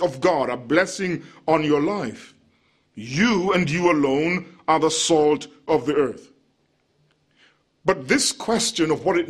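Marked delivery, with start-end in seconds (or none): 2.9-6.3 preacher insisting on you alone; stress on you alone. Shown as a demonstration. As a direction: hammer each you. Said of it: "the emphatic statement".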